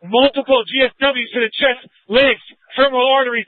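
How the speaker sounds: shouted over the radio; urgent shouting. Real, not acted. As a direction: yell it out, urgent and loud. Officer shouting over radio amid gunfire.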